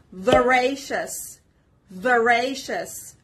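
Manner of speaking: slow, careful "Voracious", stressed on the second syllable. Shown as a demonstration. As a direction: model "Voracious" slowly for learners, leaning on the second syllable. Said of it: "The stress is on the second syllable".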